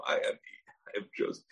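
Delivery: hushed whispered reveal. Acted. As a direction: breathe it out as an awed secret. Repeats Joseph's revelation hushed.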